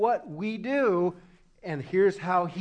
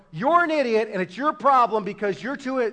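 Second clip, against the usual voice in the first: loud, blaming acted quote; blunt mock accusation; 2 semitones higher, 7 dB louder than usual. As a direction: throw the blame hard, exposing the fake apology. Decodes a fake apology bluntly.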